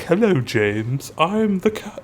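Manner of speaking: lightly put-on British grasshopper voice; British accent. Grasshopper introducing himself to James, mock British accent. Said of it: "he has, like, a British accent".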